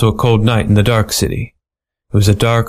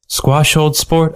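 slow, higher wisecracking detective; smug detective voice; 6 semitones higher, slower than usual. Acted. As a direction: drawl it like a smug gumshoe. Narrator voices Stretch.

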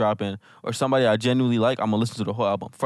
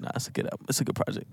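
whisper; 8 dB quieter than usual. Acted. Teasing back-and-forth over the album.

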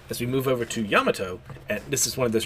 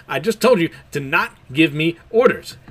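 irritated retort; 5 semitones higher, 6 dB louder than usual. Acted. Kid snaps at Law.

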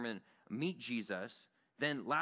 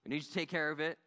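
calling again on the radio; 3 semitones higher, faster than usual. Retold or imitated. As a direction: call Joey again, a bit pleading. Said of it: "Try again".

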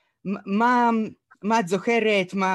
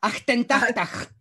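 Dutch imitation; 5 semitones higher, slower than usual. Shown as a demonstration. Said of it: "איך אומרים שמונים ושמונה בהולנדית".

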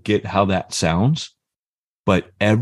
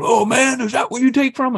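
mocking retort. Other guy confronts the speaker.

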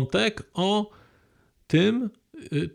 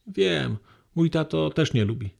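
ordinary talk

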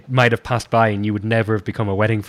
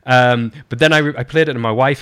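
usual speaking voice

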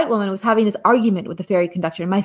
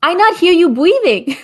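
higher, lightly voiced little boy; a small child asking his mom; a hint of a four-year-old; 8 semitones higher than usual. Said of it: "and says".

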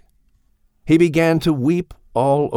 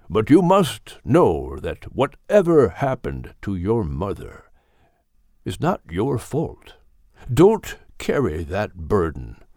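firm but gentle. Acted. Old Gilliman consoles grieving puppy Max, firm but gentle. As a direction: comfort the pup without giving ground. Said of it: "firmly but gently".

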